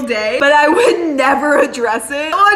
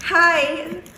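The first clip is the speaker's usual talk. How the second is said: flirty; 5 dB quieter than usual. Shown as a demonstration. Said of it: "this is exactly how I gave him his coffee".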